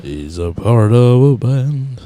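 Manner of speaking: drawn-out mock repeat; mocking echo. Cohost echoes his friend's band remark, drawn-out mocking. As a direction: echo it slowly, teasing.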